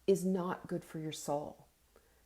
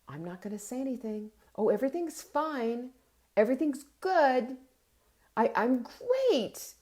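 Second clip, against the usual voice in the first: mock passive-aggressive brightness, higher; 5 semitones higher, 4 dB louder than usual. Sulking person insisting everything is fine, passive aggressive. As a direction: chirp "I'm great" through a forced sweetness. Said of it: "So passive aggressive".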